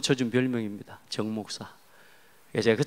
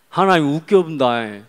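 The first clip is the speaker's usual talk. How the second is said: slow, loud Jeolla-dialect taunt; 3 semitones higher, 6 dB louder than usual. Retold or imitated. Schoolboy taunting a Christian friend, Jeolla dialect. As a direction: drag out the jeer in Jeolla dialect. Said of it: "전라도 말로 갈게요".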